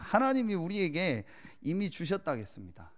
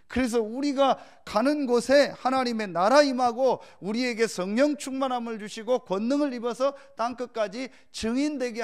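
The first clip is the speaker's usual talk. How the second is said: raised, louder pulpit delivery with stretched key words; forceful preaching; 7 semitones higher, 6 dB louder than usual. Real, not acted. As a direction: proclaim it to the congregation. (힘주어 선포하는 설교)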